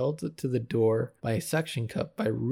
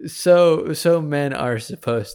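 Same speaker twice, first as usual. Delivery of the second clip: laughing; 3 semitones higher, 8 dB louder, slower than usual. Real, not acted. Laughing aside, louder.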